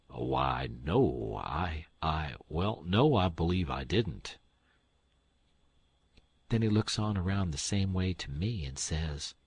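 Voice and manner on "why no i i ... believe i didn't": put-on low, stammering old gentleman; flustered old man. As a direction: fumble for an answer.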